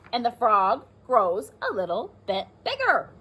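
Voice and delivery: put-on lively read-aloud for young children; teacher reading a rhyming book to the class; storybook reading. A narrator's reading.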